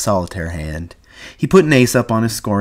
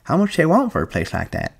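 put-on high old-man voice, eager; excited; 9 semitones higher than usual. A narrator's reading. Candy asks George the price, excited old man. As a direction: ask keenly in an old man's high pitch. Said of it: "Candy went on excitedly".

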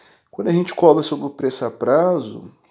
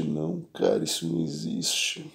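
slow, fading exasperation; real tired disbelief, dropping away softly; weary; 9 semitones lower, 8 dB quieter than usual. Real, not acted. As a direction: trail off low and quiet, worn out. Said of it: "Dá uma canseira".

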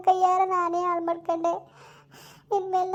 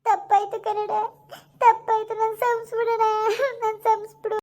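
sobbing apology; 2 semitones higher than usual. Acted. Sister begs forgiveness crying.

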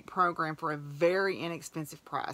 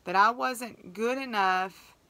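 hurt; 4 semitones higher, 3 dB louder, slower than usual. Real, not acted. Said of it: "I was so hurt".

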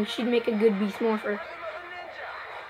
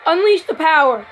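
hero shout; 3 semitones higher, 4 dB louder than usual. Pretend. Morphing call in hero game.

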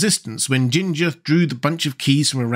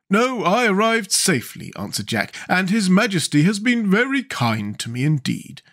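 Pumpkinhead voice; 6 semitones higher than usual. A narrator's reading.

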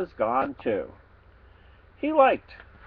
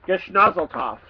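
pig voice; 3 semitones higher, 3 dB louder than usual. Acted. Pig's odd greeting word.

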